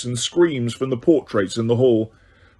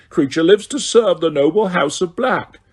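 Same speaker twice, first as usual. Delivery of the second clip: higher, grovelling servant voice; fawning house elf; 5 semitones higher than usual. A narrator's reading. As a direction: fawn over your master. Elf addresses Sirius.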